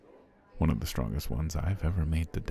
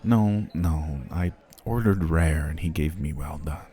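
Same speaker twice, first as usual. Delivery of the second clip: indignant complaint; 6 dB louder than usual. Acted. Complaining about the wrong steak.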